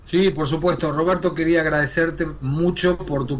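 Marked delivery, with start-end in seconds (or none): none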